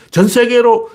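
high, sweeping mock decree; acted royal order; king's command. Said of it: "이렇게 명령을 못 내린다고".

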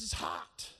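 a touch of the woman's surprise; lightly voiced surprised woman. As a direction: say it low, lightly putting on her voice. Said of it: "she says".

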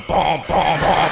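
bouncy imitated boom sounds; playful "bom" noises for bouncing. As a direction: mimic a car bouncing on hydraulics. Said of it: "and go".

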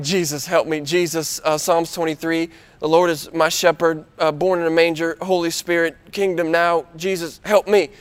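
mock panic prayer. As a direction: rattle off every Christian phrase in a low hurry. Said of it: "what my friends call the panic prayer".

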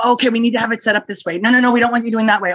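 quick mock back-and-forth orders; rapid-fire instructions. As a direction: rattle off changing instructions. Acting out constantly changing instructions.

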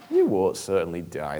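a hint of a tempting snake, drawn out; serpent voice. Tempter serpent to the woman, lightly voiced and slow. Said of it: "the serpent said".

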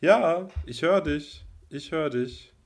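stuttering connection. Real, not acted. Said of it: "Du hast grad ein bisschen nur gestockt".

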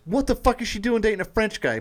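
high-pitched indignant retelling; mock outrage. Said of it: "she wants to act all outraged".

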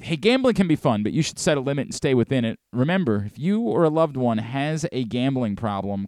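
quick, even disclaimer read. Acted. Host reading the required gambling disclaimer, brisk ad read. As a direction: rattle off the legal notice briskly.

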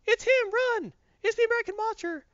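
high-pitched mock panic cry; crowd yelling. Crowd spotting Firestorm and fleeing, high alarmed yell. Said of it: "The crowd starts yelling".

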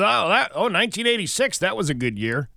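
high, excited clerk voice; imitating the clerk. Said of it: "she goes".

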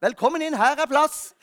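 cheerfully acted sketch line; mock welcome. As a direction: blurt out a friendly welcome for a comic punchline.

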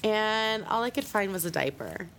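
talking with a runny nose from a cold; sniffly, stuffed-up head cold voice. Real, not acted. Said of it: "my nose is gonna be running".

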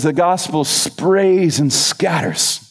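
slow, drawn-out attempt at an Australian accent; butchered Australian accent. Preacher finishing the speaker's sneeze image, loose Australian accent. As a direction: quote it slowly, lightly Australian. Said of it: "I'm butchering the Australian accent".

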